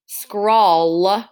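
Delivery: SCRAWL stretched to a clear L; ul sound at end. Shown as a demonstration. Teacher checking endings with pupils, stretched out. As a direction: linger on "Scrawl" through its ul ending. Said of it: "have an ul sound at the end".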